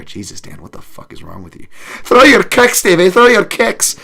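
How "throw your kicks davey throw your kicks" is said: cornerman yelling. Retold or imitated. Imitating a cornerman shouting.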